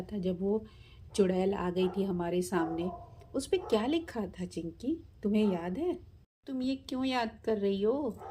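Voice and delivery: lightly voiced chatty little girl; a child recalling a spooky paper. Little girl nervously reminding her friend. Girls' dialogue voiced by narrator.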